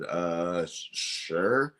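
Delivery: retold stammered yes, rising at the end; falter, then agree with a questioning lift; hesitant agreement. Belt maker retelling his answer to a wrestler's request, hesitant.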